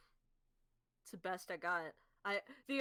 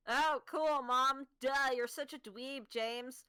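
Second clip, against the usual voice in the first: a bit higher, louder nerdy mocking; nerdy sister voice; 3 semitones higher, 5 dB louder, slower than usual. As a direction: imitate her, a touch nerdier. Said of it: "that's my voice, but louder".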